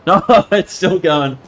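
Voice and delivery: slow laughing repeat. Real, not acted. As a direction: laugh through the words.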